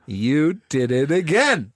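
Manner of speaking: slow, deliberate compliment; drawn-out praise. Shown as a demonstration. Showing friends the all-purpose compliment, drawn out. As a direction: draw it out as a ready-made answer.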